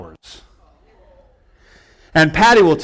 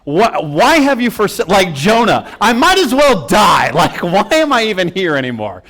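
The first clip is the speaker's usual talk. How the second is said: higher, a touch of lament; mock anguished cry; 4 semitones higher than usual. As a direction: cry out to God in mock despair. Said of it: "I cried out to God".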